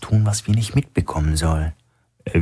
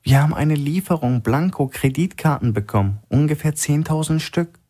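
nervous bank clerk, voice pitched higher; shaky voice; 10 semitones higher than usual. A narrator's reading. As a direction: blurt it out anxiously, a touch of tremble. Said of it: "Mit zittriger Stimme sagte die Frau". (ängstlich, mit leicht zittriger, höherer Stimme)

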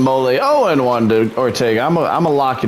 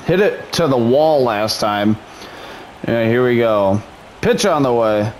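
plain. Acted.

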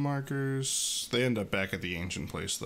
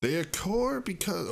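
slow Xatu voice; 7 semitones higher than usual. Acted. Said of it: "Let me take that line again".

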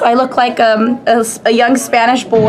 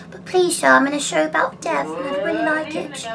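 retold plea; 3 semitones higher, 7 dB quieter than usual. Acts out pleading with shop seller.

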